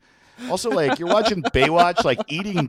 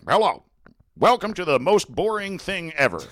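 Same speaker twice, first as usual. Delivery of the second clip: boring English news anchor; 2 semitones higher than usual. Retold or imitated. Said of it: "English-speaking news is like".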